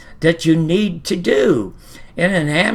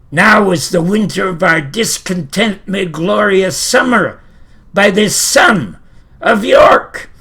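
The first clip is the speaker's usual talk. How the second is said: a hint of a grand Shakespeare villain, rising louder; Richard the Third; 3 semitones higher, 5 dB louder than usual. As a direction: address the audience with bold relish. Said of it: "and he says".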